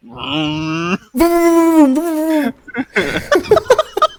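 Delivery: high, revving race car noise; race car zooming past. Pretend. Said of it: "Start making race car noises".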